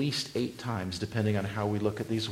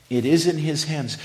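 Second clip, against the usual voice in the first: louder repeat with a higher push on in; 4 semitones higher, 6 dB louder than usual. Shown as a demonstration. Preacher repeating for emphasis, louder and higher. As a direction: drive it home the second time.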